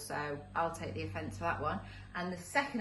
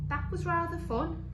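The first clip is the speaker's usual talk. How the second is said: high-pitched, amused character voice; high little monster voice, pleased; mock giggly monster; 11 semitones higher, 5 dB louder than usual. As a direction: say it high and gleeful, without really laughing. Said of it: "giggled the first monster".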